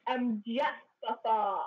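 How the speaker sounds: a booming start, then slow; drawn-out, lightly voiced dragon dad; mock grand dragon. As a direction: announce the name slowly, grandly. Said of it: "he's all like".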